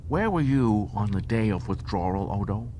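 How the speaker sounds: a sly dare to Odo; Quark bargaining. Acted.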